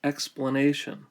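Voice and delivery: "explanation" with a short, reduced second vowel; shortened vowel. Shown as a demonstration. Teacher shows the vowel shift from an ending, short vowel. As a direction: shorten the middle of "explanation", stressing "-na-". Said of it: "to a short vowel".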